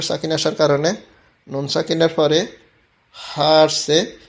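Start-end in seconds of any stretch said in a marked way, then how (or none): 3.1-4.2 slow demo. Shown as a demonstration. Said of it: "স্পষ্ট করে পড়তে হবে".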